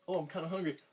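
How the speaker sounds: hungry duck voice. Pretend. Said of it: "a little".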